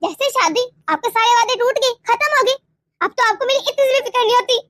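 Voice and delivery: hurt, accusing tirade; angry reproach. Acted. Wife accusing husband of caring only for his mother, angry reproach. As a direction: pile up the grievances at him accusingly. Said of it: "ये तुम किस लहजे में बात कर रहे हो".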